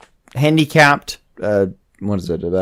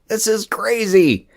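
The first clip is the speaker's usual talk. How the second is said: bad acting; 10 semitones higher than usual. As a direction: ham up a worried scold. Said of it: "expected to deliver the line, like".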